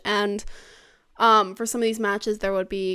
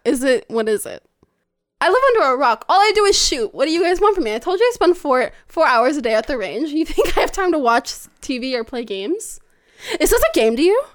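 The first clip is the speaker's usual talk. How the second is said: louder, higher mock outrage; mock indignant rant; 3 semitones higher, 5 dB louder than usual. Guest teased about games, mock indignant rant. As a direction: defend yourself in a playful huff.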